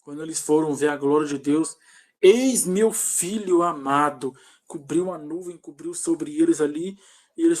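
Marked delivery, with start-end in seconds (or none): 2.2-4.3 slow, measured voice of God; voice of authority. Retold or imitated. God speaks to the apostles from the cloud, authoritative. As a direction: declare it slowly, with authority. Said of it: "aquela voz de autoridade".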